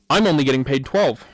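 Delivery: loud, indignant retold complaint; imitated angry driver. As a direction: act out a driver getting worked up. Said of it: "he's getting angry".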